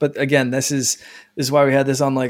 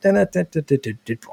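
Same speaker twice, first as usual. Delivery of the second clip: Pac-Man sound; 2 semitones higher, much faster than usual. Shown as a demonstration. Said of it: "Like the Pac-Man sound".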